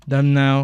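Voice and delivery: "Them now" echoed loudly as a drill; imitating the audio. Shown as a demonstration. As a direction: repeat "Them now" firmly after the native model. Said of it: "Kalian bisa ngikutin gitu". ("Them now" lantang, menirukan audio)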